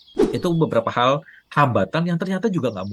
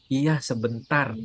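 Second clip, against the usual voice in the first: lazy slow reply; slower than usual. Retold or imitated. Husband putting off his wife's request, slow lazy reply. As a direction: stretch out "Iya, sebentar" slowly and lazily. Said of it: "Bilang sebentar tuh buat istri tuh bisa naik pitam".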